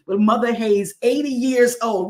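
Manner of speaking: high, loud delight; excited praise. Real, not acted. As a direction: marvel at her age. Celebrating elder's birthday.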